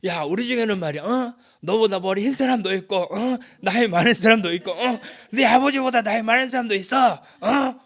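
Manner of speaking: loud, high, blustering movie tough-guy voice; Choi Min-sik. Acted. Eliphaz bragging of elders like a film gangster, blustering impression. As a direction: bark each boast and punch a challenging "어?" after it. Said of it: "그 최민식이 나와서 뭐".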